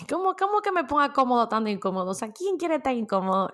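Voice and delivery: imitando con ligera burla a alguien que no se lo cree; oyente escéptico. Pretend. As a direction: pregunta incrédula, un poco más aguda al principio. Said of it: "tú me vas a decir". (la oyente imaginada protesta, incrédula y algo burlona)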